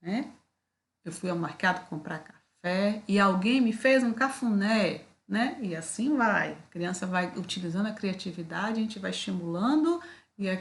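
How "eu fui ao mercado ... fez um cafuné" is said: lightly voiced child finishing the verse; child's answer. Shown as a demonstration. Teacher voicing a child's rhyming answer. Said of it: "aí ela vai falar".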